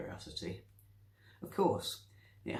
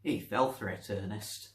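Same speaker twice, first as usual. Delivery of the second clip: barely hidden excitement. Acted. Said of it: "could barely conceal her excitement".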